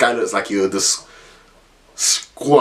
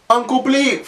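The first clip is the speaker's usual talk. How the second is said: mocking nickname; 12 semitones higher, slower than usual. Kids taunting the caretaker.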